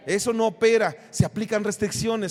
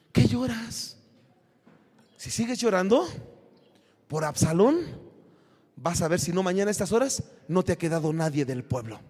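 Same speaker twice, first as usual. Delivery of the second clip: lower, hard scolding voice; stern rebuke; 6 semitones lower, 6 dB quieter than usual. Retold or imitated. General Joab rebuking the king for weeping, stern and low. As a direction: Joab cutting off David's crying.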